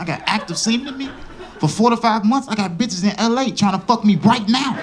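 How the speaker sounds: mad. Retold or imitated. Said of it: "I got mad all over again".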